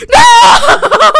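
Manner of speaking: long, high, loud wail; anguished scream. Real, not acted. Player losing the game, anguished scream. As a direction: scream out the defeat. Loses his bed.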